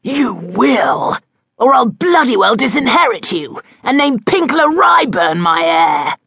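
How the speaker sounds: father threatening to disinherit his son; angry threat. A narrator's reading. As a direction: spit the threat at him.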